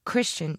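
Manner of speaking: "Christian" said as a separate, careful word; careful enunciation. A narrator's reading. She backtracks to her lover, "Christian" carefully enunciated. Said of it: "she enunciated carefully".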